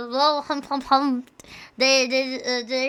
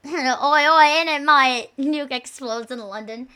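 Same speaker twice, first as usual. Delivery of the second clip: mock British. Mock Brit in nuke joke.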